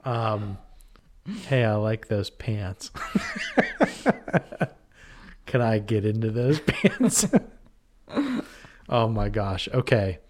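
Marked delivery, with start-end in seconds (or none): 1.5-7.3 slow, leering pickup line; slick sleazy guy. Acted. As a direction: laugh through a sleazy come-on. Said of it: "I wanna be the slick guy".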